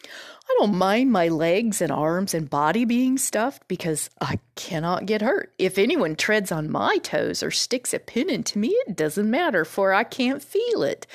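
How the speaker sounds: mildly confident scarecrow, emphatic on key words; lightly voiced straw man explaining himself; confidently. Scarecrow tells Dorothy about being stuffed, mildly confident. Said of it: "he continued confidently".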